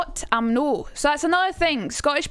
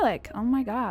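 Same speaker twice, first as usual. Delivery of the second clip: American accent; 4 dB quieter than usual. Shown as a demonstration. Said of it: "how do you say American R".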